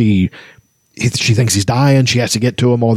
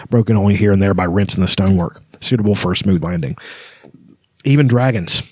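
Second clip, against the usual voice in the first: low, measured story narration; grave ancient myth telling; 3 semitones lower than usual. A narrator's reading. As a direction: read it like an old legend. Continues novel reading.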